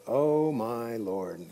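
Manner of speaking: put-on drawn-out, slow valley-girl sigh. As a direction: stretch it out like a bored valley girl. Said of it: "He kind of sounds like a valley girl there".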